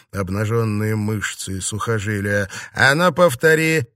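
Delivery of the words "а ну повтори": high, loud angry dare; heated, menacing order; threatening. A narrator's reading. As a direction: demand it as a challenge to a fight. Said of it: "Он угрожающе двинулся к девушке".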